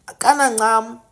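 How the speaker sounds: Kanancam whispered; whispered word. Shown as a demonstration. Explaining the name to viewers, whispered.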